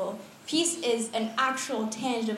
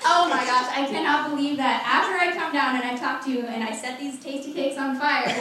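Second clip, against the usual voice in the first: mock exasperation; 3 semitones higher, 4 dB louder than usual. Imagined exasperated God scolding Gideon.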